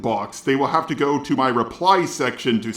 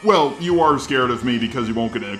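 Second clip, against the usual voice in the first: robot voice. Shown as a demonstration. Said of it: "doing this response in the robot voice".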